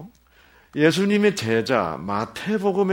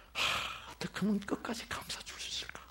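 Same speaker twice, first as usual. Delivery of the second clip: whispered inner thought; 7 semitones higher, 14 dB quieter than usual. Retold or imitated. Parent's tender inner thought.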